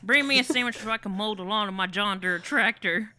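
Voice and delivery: mock country-farmer twang; Southern accent. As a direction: play along as a Southern tractor man. Joining the Southern man bit.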